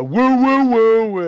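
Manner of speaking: mock fan whoops, loud and high; fan yelling. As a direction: imitate a rowdy fan cheering. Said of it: "that dude yelling".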